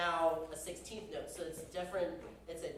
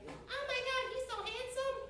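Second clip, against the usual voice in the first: much higher, gushing fangirl squeal; breathless adoring fan; swooning groupie. Pretend. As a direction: swoon over the handsome hero. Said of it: "Gaston's groupies".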